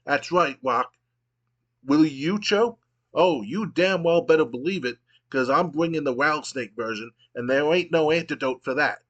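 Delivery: swagger and threaten, hammed-up; lightly voiced brash wrestler; Stone Cold promo. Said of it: "And Stone Cold goes".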